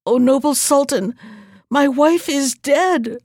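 a hammed-up tearful lament; weeping. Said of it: "wept he".

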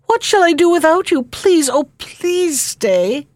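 high, distressed plea, understated sob; tearful pleading. A narrator's reading. Princess begging her friend to stay, tearful pleading. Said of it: "she sobbed".

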